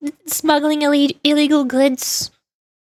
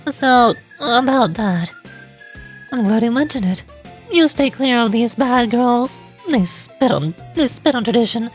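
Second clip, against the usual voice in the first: quarrelling rivals; 2 semitones lower than usual. Acted. Rival club members bickering before an instructor, stern.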